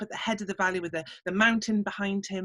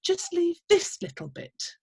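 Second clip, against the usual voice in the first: bossy little man. Acted. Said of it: "said the little man".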